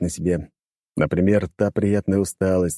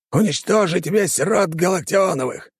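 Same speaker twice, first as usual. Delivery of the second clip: commanding order; 12 semitones higher than usual. Acted. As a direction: bark the order at the servants. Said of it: "дал он команду".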